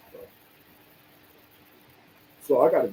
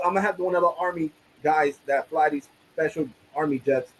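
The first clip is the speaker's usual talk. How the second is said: retold sarcasm, pitched up; sarcastic rant; 4 semitones higher than usual. Telling the bank about army jets, sarcastic. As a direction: spin the absurd story in mock seriousness. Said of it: "you don't have to be so sarcastic".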